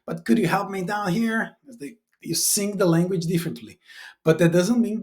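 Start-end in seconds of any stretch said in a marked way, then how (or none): 0.1-1.6 southern US accent. Shown as a demonstration. Teacher illustrates regional accents, imitated southern US accent. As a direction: put on an American South accent. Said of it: "from the south of the U S A".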